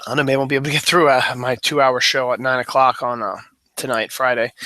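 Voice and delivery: winded, rushing the words out; out of breath. Real, not acted. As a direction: talk fast while short of breath. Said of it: "Getting winded here".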